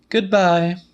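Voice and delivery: high, curt goodbye; Celia's voice. A narrator's reading. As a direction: snap it off high. Celia hangs up.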